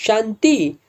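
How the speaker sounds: Shanti? as if he can't believe it; surprised question. Acted. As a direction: friend reacting to the dancer's name, startled. Hearing the name, taken aback.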